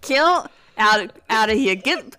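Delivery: loud hammed-up rant; mock fury. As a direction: rant like a cartoon villain. Acting furious kilt-hater.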